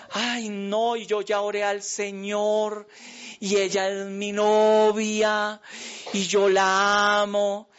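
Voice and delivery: mock dreamy lovestruck voice; lovesick young man. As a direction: play the starry-eyed boy in love, drawn out.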